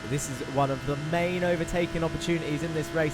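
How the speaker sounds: brisk, lively onboard lap commentary; live play-by-play. Real, not acted. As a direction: talk viewers briskly round the circuit.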